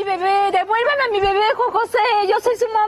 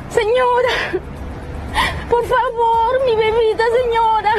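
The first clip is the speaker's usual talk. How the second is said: crying plea. Real, not acted. Mother pleading with the other woman.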